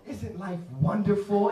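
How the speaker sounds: high, slow, dreamy delight; mock blissful. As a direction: play a blissfully happy stranger, drawing it out. Acted overjoyed stranger on tube.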